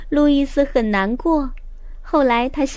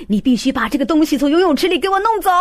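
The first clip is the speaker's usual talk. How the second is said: stern coach order; 4 semitones higher, 4 dB louder, faster than usual. A narrator's reading. Coach orders boy, upset.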